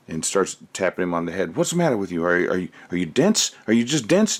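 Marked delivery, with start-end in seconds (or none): 1.5-4.4 a lightly voiced exasperated teacher; mock scolding teacher. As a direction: tease the kid in a higher voice. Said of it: "the teacher said".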